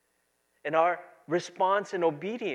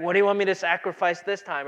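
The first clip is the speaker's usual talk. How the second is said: fast, louder mock complaint; tired churchgoer griping, fast and louder; exasperated grumble; 6 dB louder, faster than usual. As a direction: rattle it off like a fed-up believer.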